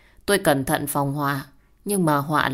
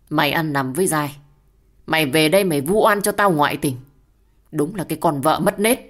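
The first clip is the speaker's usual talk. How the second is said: heavy angry voice; 4 dB louder than usual. Acted. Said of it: "giọng nói càng ngày càng nặng nề".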